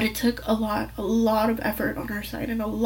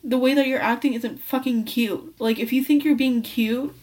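retold yelling back; 3 dB louder than usual. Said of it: "I screamed at her".

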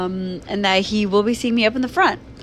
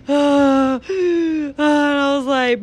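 inner panic; 6 semitones higher, 4 dB louder, much slower than usual. Retold or imitated. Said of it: "panicked inside".

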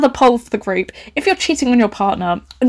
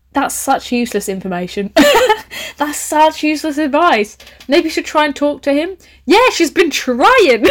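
laughing scorn; 6 semitones higher than usual. Real, not acted. Mocking friend's useless advice.

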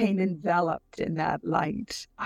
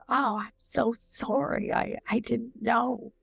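higher, pleading, full of remorse; remorseful apology; 5 semitones higher than usual. Retold or imitated. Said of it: "feeling such tremendous remorse".

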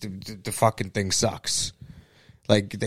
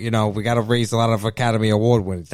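lightly voiced Al Pacino, rambling and hoarse-free; Al Pacino impression; 3 semitones lower than usual. Chatting to Bob about having kids, in a lightly voiced Al Pacino. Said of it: "Pellegrino is Al Pacino".

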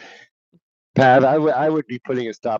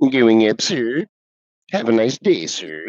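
Droopy; 2 semitones higher, slower than usual. Acted. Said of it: "the guy's name was Droopy".

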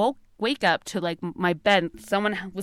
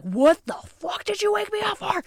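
high, exasperated mom voice; imitating annoyed mom; 12 semitones higher than usual. Mom bursting in, irritated at her screaming daughter. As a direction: play the mom woken from sleep, annoyed. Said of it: "She's like".

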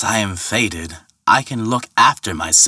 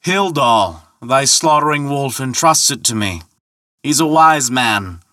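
calling out; 4 semitones higher than usual. Acted. Ferryman telling Thor whose ferry it is, calling out. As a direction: proclaim the orders across the water. Ferryman calls his answer across water.

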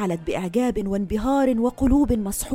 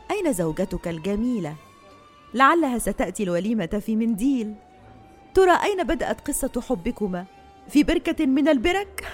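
mocking; 3 semitones higher than usual. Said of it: "استقبلاه بالسخرية".

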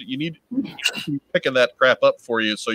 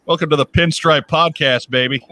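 announcer voice; 4 semitones higher, 4 dB louder than usual. Pretend. Mock show intro.

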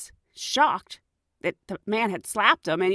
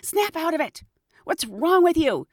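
a lightly voiced old man scolding, raised pitch; stern scolding; 9 semitones higher, 4 dB louder than usual. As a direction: snap at him like a fed-up old man. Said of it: "he was like".

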